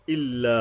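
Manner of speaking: ইল্লা with its final aa briefly held; one-alif elongation. Shown as a demonstration. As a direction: lengthen the end of ইল্লা one beat. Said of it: "এক আলিফ". (ইল্লা এক আলিফ টেনে)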